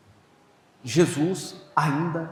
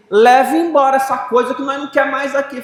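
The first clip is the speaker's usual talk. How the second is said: wife rejecting him; 9 semitones higher, 7 dB louder than usual. Retold or imitated. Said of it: "a mulher disse assim".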